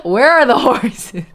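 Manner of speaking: mock demanding. Real, not acted. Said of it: "I really need you to answer this question".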